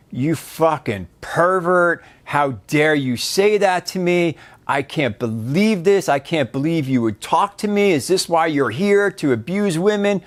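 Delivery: retold angry outburst, only half-voiced; yelling. Offended woman in shoe store yelling at him, mild mock anger. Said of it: "she just starts yelling at me".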